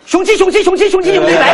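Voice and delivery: loud, high Shaanxi dialect greeting; Shaanxi accent. Acted. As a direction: bellow it in broad Shaanxi dialect. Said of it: "不是陕西人说话吗？".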